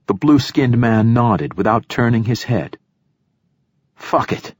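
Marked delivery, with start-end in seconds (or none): 3.9-4.5 raspy. A narrator's reading. Poet gives up, rasping.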